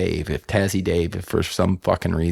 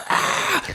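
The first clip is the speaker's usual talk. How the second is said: mock anguished cry. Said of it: "and I'm just crying".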